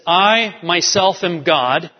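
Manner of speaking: "I" pressed hard and slow in "I myself am God"; stress on I. Shown as a demonstration. Preacher quoting God, stressing "I". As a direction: lean on "I", drawn out. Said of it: "He emphasizes the word "I".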